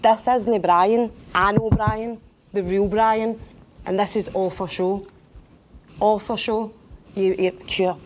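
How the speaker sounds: angry. Acted. Accusing her ex on the show.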